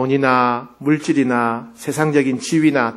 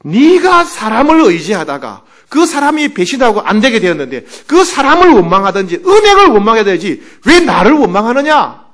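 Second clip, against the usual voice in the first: higher and louder, a firm rebuke; God rebuking; 6 semitones higher, 7 dB louder than usual. Retold or imitated. God answering the resentful pastor, in a loud firm rebuke. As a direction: scold him as a stern father would. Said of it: "하나님 말씀하십니다".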